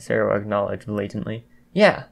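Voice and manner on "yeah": chiming in. A narrator's reading. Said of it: "Kaminari added".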